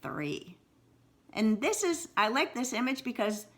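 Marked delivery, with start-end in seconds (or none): 0.0-0.6 whispered. Shown as a demonstration. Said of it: "answers in a whisper".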